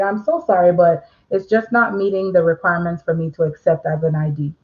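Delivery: courteous, even apology to a customer; polite and professional. Shown as a demonstration. Notary telling a customer the ID won't work, politely. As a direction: keep it calm and polite, no accusation. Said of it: "See how I'm saying it?".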